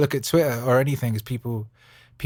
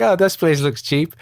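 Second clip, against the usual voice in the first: imitating wife; 6 semitones higher, 5 dB louder than usual. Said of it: "She was like".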